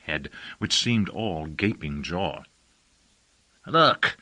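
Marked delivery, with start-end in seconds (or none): 3.7-4.2 husky voice. A narrator's reading. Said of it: "came the husky voice of Isaac Commandore".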